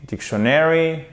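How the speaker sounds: dictionary pitched high with a late stress; misplaced stress. Shown as a demonstration. Teacher quizzing learners on the accent, misplaced stress. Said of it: "c'est sur la première syllabe".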